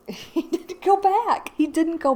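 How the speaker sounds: amused disbelief. Real, not acted. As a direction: drag it out through laughter. Laughing as story ends.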